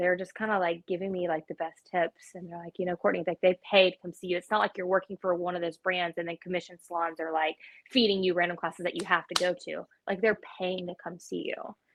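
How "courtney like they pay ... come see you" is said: ordinary talk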